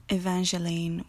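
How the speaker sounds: Evangeline with a soft G as /dʒ/. Shown as a demonstration. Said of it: "with a soft G".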